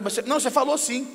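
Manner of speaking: mock quarrel, pressing the point; acted insistent accusation. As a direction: overlap as if cutting the partner off.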